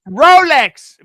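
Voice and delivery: loud, high exclamation; called-out answer. Real, not acted. Co-host insisting on the meaning of life, shouted. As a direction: call it out over the other speaker.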